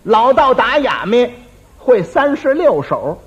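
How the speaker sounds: slow, emphatic reading of the notice; reading slowly. Shown as a demonstration. Reading the imperial notice to the braggart, slow and emphatic. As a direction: read it out slowly, word by word. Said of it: "皇榜写的明白".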